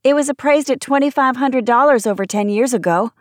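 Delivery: high-pitched, insistent protest; arguing. A narrator's reading. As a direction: argue the value urgently. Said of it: "Emma argued past the nausea gathering".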